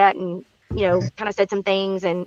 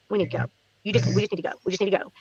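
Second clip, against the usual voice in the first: hushed urgent; 2 semitones lower, 7 dB quieter, much faster than usual. Real, not acted. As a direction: keep it down, we have to leave now. Urgently tells son to leave.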